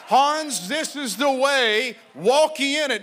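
a light sat-nav guidance voice, high and steady; mock GPS voice of God. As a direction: guide him like a gentle sat-nav. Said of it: "Holy Ghost to speak in his voice".

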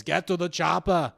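half-strength action-hero yell; mock yell. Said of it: "he yells".

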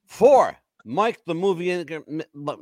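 words slurred by slipping dentures; stumbling over loose false teeth. Real, not acted. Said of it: "My dentures are slipping".

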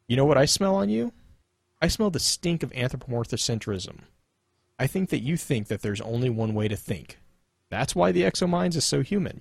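lightly voiced snarky Cade, lecturing; reading as Cade. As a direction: read the lore as a smug know-it-all, lightly voiced. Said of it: "it totally has the resonance of Cade's snark".

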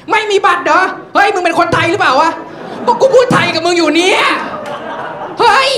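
high, loud mock outrage; incredulous policeman. Policeman questioning whether the boy is Thai, exasperated. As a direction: bark it in comic disbelief.

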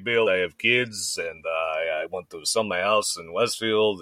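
world-weary Russian doctor impression; imitated Russian doctor; Russian accent. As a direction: put on a Russian accent, drawn-out words. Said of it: "this gnarly Russian dude".

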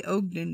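"Ogden" with a long O, as OHG-din; playful mispronunciation. Shown as a demonstration. Host adopts the funny outsider version, OHG-din "Ogden". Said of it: "So I like to say".

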